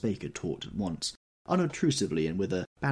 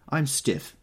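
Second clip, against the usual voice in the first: complaining; 6 semitones higher, 3 dB louder than usual. Acted. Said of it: "she complained".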